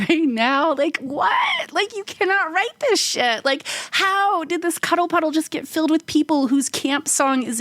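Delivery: can't believe what's happening in front of you; astonished disbelief. Retold or imitated. To friends about the strangers' twerk camp song, pitched high in excited disbelief.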